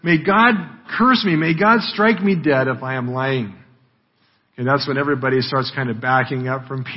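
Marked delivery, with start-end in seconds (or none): 0.0-3.5 mildly forceful vow; forceful oath. Acted. Peter swearing he isn't lying, measured forceful oath. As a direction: press the self-curse home firmly. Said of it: "he says it with such force".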